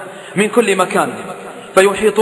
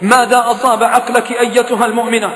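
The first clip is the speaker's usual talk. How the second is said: raised lament of a preacher; pained preaching; 3 semitones higher than usual. Acted. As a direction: plead with heartbreak.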